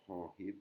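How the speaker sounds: "Hong Hip" with the H breathed out from the throat; aspirated H. Shown as a demonstration. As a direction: push air from the throat to start each word of "Hong Hip". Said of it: "on fait sortir l'arc de la gorge". (« Hong Hip » avec un H soufflé depuis la gorge)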